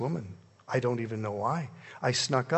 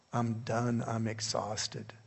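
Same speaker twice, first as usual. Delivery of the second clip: slow, softer and drained; weary exhaustion; 2 semitones lower, 6 dB quieter, slower than usual. Retold or imitated. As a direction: let the words sag with tiredness. Worn out after seven years.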